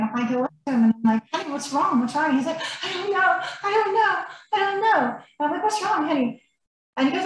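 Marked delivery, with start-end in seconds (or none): 1.3-2.4 higher-pitched, tender questioning; gentle concern. Retold or imitated. Wife retelling how she asked her crying husband, gentle concern. 2.8-5.2 imitated high, whimpering cry; Lance. Wife voicing her crying husband's answer, imitated tearful whimper. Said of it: "he's just crying. He's crying". 5.6-6.4 higher, softened questioning; gentle concern. Retold or imitated. Wife retelling her question to her crying husband, gentle concern.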